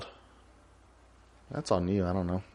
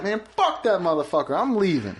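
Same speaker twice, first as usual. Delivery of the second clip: higher-pitched indignant quote; mock fed-up player; 6 semitones higher than usual. Opponents walking off the field, imitated exasperation. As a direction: act out a player giving up, lightly exasperated. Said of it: "they were just like".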